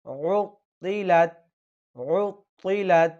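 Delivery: উতিলাত with a heavy ত, slowly. Shown as a demonstration. Teacher repeating the correct heavy ত for students. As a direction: give the ত in উতিলাত full weight. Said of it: "একটু মোটা করতে হবে".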